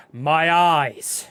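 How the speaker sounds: loud, drawn-out wail about blinding light; mock pained cry. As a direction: cry out as if dazzled.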